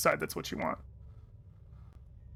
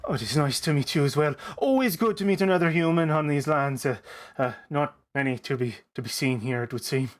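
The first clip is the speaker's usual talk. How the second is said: Biff. Acted. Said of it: "no, that's the voice".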